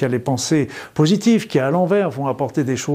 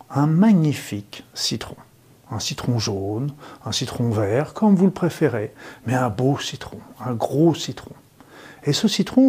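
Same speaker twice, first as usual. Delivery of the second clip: sultry narrator. Acted. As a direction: guide them gently through the image. Guided lemon visualization.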